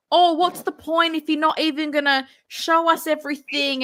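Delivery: a mocking, badly done American accent for the commenter; terrible American accent. Australian streamer mocks his hate commenter in a bad American accent. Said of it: "my terrible accent".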